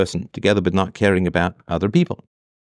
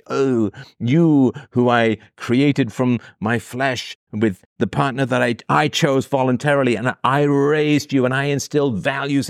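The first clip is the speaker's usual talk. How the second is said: mock parent voice; 2 semitones higher than usual. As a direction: drag it out like a self-righteous parent. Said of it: "pull this nonsense on me".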